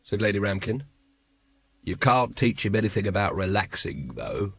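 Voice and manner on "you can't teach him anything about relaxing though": a hint of a low, weary captain; slightly lowered, tired voice; dry weary captain. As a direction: mutter it drily, dropping low at the end. Voices Vimes in story.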